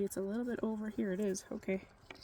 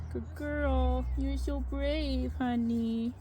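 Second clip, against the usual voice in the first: soothing praise; 3 semitones higher, much slower than usual. Real, not acted. Praising goat after needle.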